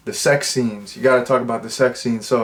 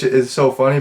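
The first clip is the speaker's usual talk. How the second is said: ordinary delivery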